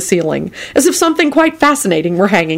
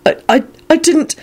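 flustered; 11 semitones higher than usual. Acted. Neville's flustered denial.

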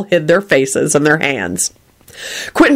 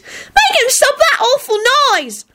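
put-on very high, drawn-out child's whine; shrieked complaint. A narrator's reading. Girl complaining to uncle about singing, shrieking. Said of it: "Natalie shrieked".

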